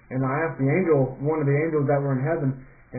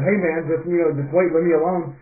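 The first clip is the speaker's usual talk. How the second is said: a little louder, retold protest; retold irritated brush-off; insistent brush-off; 3 semitones higher, 5 dB louder than usual. Dreamer tells best friend to leave me alone, insistent.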